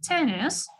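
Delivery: Tennis with a clearly stressed first syllable. Shown as a demonstration. Teacher confirming the answer, Tennis stressed on the first syllable. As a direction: hit the TEN in Tennis. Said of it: "on the first syllable".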